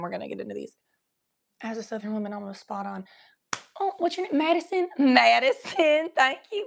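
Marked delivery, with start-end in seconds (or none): 3.8-6.6 bright, lilting high voice; high sing-song. Real, not acted. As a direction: call out the name in a sing-song. Reads a chat name, sing-song.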